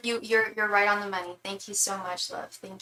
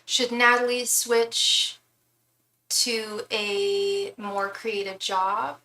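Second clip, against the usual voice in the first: slow careful phrasing; 4 dB louder, much slower than usual. Shown as a demonstration. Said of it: "How would you like me to ask it?".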